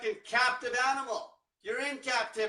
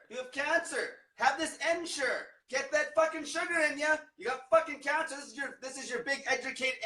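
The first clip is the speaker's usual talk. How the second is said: mocking doctor; 4 semitones higher than usual. Mocking doctors pushing sugar on patients.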